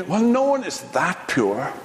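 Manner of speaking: lightly voiced sceptical reader; a hint of a doubting aside, rising at the end; tempted doubt. Reader tempted to doubt Job's innocence, light scepticism. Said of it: "you might be tempted to say".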